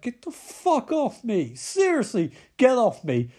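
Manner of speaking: mildly hammed-up angry protest; acted indignant refusal; mock protest. Acting Jocelyn fighting off captor.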